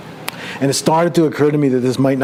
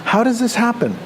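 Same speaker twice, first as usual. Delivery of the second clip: Byrne-style bewilderment; 8 semitones higher than usual. Retold or imitated. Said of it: "That was exactly what I was".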